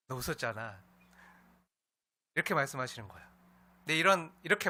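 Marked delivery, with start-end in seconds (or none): 0.1-0.8 calm, knowing remark with a smile; gentle, smiling. Acted. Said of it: "편한 느낌으로 미소 지으면서". (미소 지으며 부드럽게)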